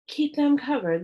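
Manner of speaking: shouts an order over the barking dogs; shouted. Acted. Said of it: "Louis shouted against the din".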